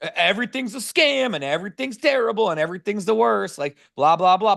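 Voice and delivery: lightly mock a cynical uncle who hates everything; grumpy broke uncle. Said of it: "broke Uncle Lonnie that just is like".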